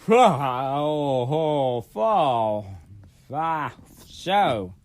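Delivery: words through a yawn. Real, not acted. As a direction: talk mid-yawn. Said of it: "Sorry, I've been yawning".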